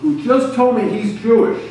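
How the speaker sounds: lightly voiced Texas coach announcing himself; Texas twang. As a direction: put on a Texas twang, building in pitch. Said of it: "he says in his Texas twang".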